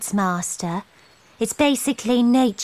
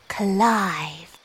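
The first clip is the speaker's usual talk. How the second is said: whisper. Acted. Mysterious hushed name.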